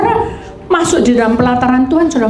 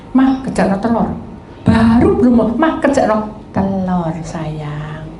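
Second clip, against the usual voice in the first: sweet request; 3 semitones lower than usual. Retold or imitated. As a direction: coax her gently. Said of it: "Itu temennya gini".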